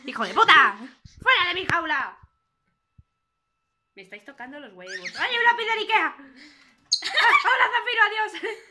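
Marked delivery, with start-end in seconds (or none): 0.1-2.2 louder, hammed-up cursing burst; playful mock rage; mock outburst. Bird voice yells at intruder. 5.2-8.6 higher and louder, laughing delight; giddy, laughing hello; excited greeting. Acted.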